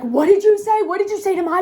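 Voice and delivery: imitating an angry guy getting in someone's face; confrontational shout. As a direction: square up to him in a retold challenge. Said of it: "he's like".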